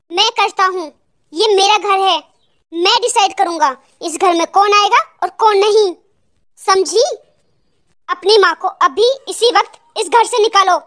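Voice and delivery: firm, controlled angry orders. Acted. Husband asserting it is his house, angry. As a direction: lay down the law with restrained anger. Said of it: "आज दामाद जी इतने गुस्से में क्यों है".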